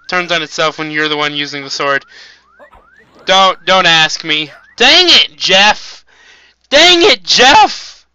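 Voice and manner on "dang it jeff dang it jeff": high, strained, loud yells at the boss; frustrated yelling. Real, not acted. Player losing to boss Jeff, yelling himself hoarse. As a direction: scream in frustration until your voice cracks. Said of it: "I'm losing my voice".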